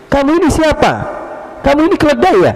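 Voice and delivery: mock the stranger as a donkey; indignant demand. Angry sleeper insulting the caliph in the dark, indignant. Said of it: "Dia bilang".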